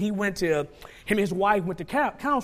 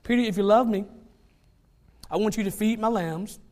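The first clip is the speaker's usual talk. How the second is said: Jesus speaking to Peter; 4 semitones higher, 4 dB louder than usual. Acted. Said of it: "And he told Peter".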